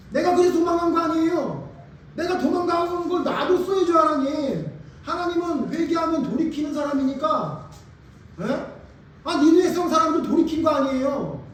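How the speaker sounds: high-pitched, loud accusing protest; indignant Jonah. Acted. Preacher as the prophet blaming God for sparing Nineveh, indignant. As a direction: argue heatedly, pushing the blame upward. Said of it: "이렇게 얘기하는 거예요".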